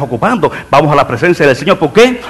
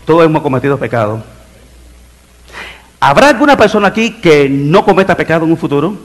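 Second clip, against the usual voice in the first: ordinary delivery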